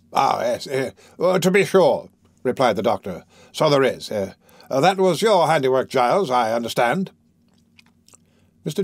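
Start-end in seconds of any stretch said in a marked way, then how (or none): 0.1-7.1 put-on hemming, blustery old doctor; fussy doctor. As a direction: stammer uh and eh then bluster. Doctor hems and remembers.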